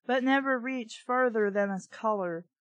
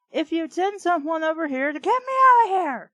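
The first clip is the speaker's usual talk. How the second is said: frustrated plea; 6 semitones higher, 7 dB louder, faster than usual. Acted. Pleading with dispatcher, frustrated.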